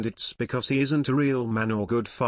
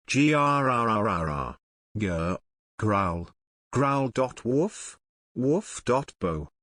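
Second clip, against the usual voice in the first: a silly put-on beast snarl, drawn out slowly; hammed-up monster growl; slower than usual. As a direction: growl like a flesh-eating uncle. Uncle's monster noises.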